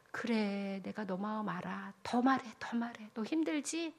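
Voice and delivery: softly voiced comforting listener; hushed, understanding, acted as God consoling; gentle reassurance. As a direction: coax them tenderly to open up.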